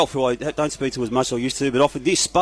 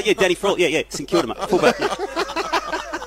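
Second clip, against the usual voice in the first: mock name-dropping; 2 semitones higher than usual. Imitating Spud name-dropping.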